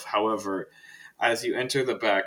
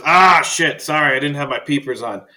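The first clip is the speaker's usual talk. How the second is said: put-on higher, louder old man voice; Faust apologizing; 5 semitones higher, 12 dB louder than usual. Librarian apologizing to Archibald, squinting old man voice. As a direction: fumble for the glasses, flustered. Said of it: "he looks at you and he goes".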